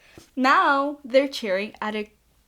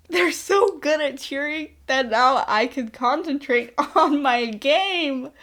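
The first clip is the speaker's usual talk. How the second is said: laughing through quote; 3 semitones higher, 5 dB louder than usual. Retold or imitated. Team voiced, laughing through.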